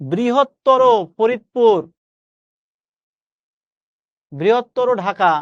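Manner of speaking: বৃহত্তর said slowly and deliberately; slow teacher demonstration; slow careful demo. Shown as a demonstration. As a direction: spell out বৃহত্তর syllable by syllable. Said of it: "আপনি উচ্চারণ করেন কিন্তু বৃহত্তর".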